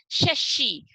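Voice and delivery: "शशि" with both श as sh, tongue to palate; "शशि" said as a careful model word; palatal श. Shown as a demonstration. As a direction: demonstrate the sh sounds in "शशि". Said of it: "जीभ को ऊपर की तरफ touch".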